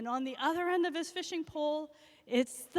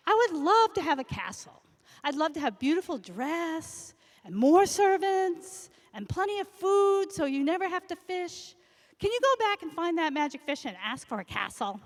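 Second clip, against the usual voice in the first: wife's greedy wish; 4 semitones higher, 5 dB louder than usual. Acted. Greedy wife asks for castle.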